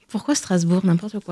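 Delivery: talking between sips of coffee; words around a sip of coffee; sipping coffee. Real, not acted. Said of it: "je bois un café".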